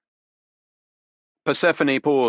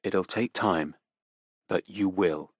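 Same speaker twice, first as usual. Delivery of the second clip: softer, calm reassurance; reassuring; 4 dB quieter, slower than usual. Acted. Detective assures the grieving woman, softly. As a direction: promise her gently. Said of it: "Otti assured her".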